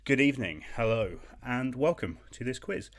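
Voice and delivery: mock showman host. Host greeting quiz players, hammed-up showman. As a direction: puff it up like a TV host. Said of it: "grand mock host welcome".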